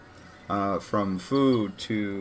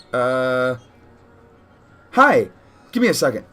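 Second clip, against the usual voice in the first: hoarse feminine voice; 7 dB louder than usual. Acted. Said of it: "in a very hoarse, uh, but still feminine voice".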